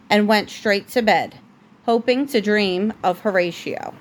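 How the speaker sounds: steady, gentle bedtime storybook read; reading a story to a child. A narrator's reading. Parent reading The Princess and the Pea to a child at bedtime, gentle storybook voice. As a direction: read it like a bedtime book for a little one. Reads picture book to child.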